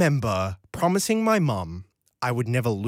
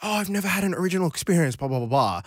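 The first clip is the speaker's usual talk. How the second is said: rattled off fast and higher, mock whiny; mocking commenters; 4 semitones higher, much faster than usual. Commenters claim they never had an original experience: fast mocking rattle. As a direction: gabble it like a roll of the eyes. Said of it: "in the comments like".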